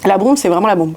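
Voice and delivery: talking with a burning mouth; mouth burning from spicy food. Real, not acted. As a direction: lips stinging from hot sauce. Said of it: "Ça brûle la bouche".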